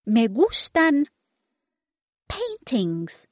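put-on very high, demanding little-girl voice; baby voice. Baby demands yummy food from the children, very high and bossy. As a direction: play a bossy toddler ordering food. Baby's voice.

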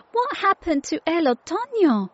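high, startled question on waking; startled cry. Acted. Tilly wakes suddenly and autumn is gone, startled cry. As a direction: cry out in surprise, pitched well up. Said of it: "cried Tilly, waking suddenly".

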